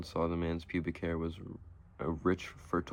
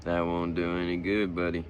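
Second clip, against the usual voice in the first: kindly; 5 dB louder than usual. Acted. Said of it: "the lawnmower man said kindly".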